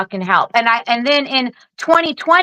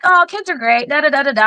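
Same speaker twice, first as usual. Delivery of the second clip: mock enthusiasm; 3 semitones higher than usual. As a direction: put on the happy-mom routine. Mimics her own motherly enthusiasm.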